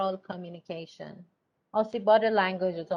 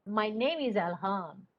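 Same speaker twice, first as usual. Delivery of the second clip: "name" stressed, falling at the end; falling statement. Shown as a demonstration. Teacher modelling an answer with falling tune. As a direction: state it and let it drop. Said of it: "the intonation in language".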